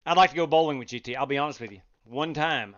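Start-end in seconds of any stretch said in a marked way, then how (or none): 0.1-1.2 louder, fast and eager; playful eager wish. Acted. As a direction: blurt it out keenly. Joking wish, repeated.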